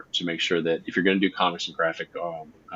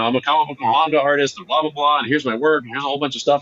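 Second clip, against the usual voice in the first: higher, rattled-off mock sales pitch; lightly mocking, raised-pitch spiel; eager self-pitch; 7 semitones higher, 4 dB louder, faster than usual. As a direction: imitate a keen hopeful reeling off credentials. Mimics an artist's eager pitch.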